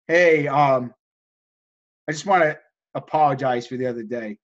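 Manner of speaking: low, halting retold apology; subdued, hesitant and apologetic; sheepish apology. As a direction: imitate a humbled customer asking a favor. Voices the sheepish apologizing customer.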